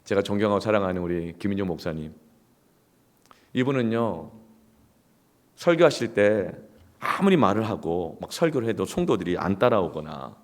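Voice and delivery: ordinary talk, nothing marked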